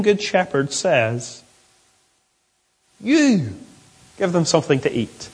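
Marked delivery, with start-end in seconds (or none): 3.0-5.3 emphatic "You", set apart from the command; stress on You. Acted. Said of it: "is emphatic".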